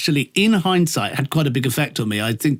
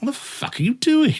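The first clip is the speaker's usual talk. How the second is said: mock outraged yell; 9 semitones higher than usual. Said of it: "I was like".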